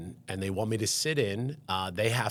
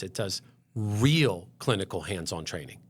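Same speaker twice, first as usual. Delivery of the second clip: emphatic, lengthened "real"; stress on real. Real, not acted. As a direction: lean on the word "real", holding it. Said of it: "I need to stress".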